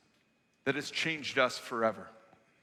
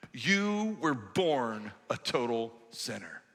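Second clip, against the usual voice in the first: sneering Pharisee; 5 semitones lower, slower than usual. Acted. Pharisees insult the man.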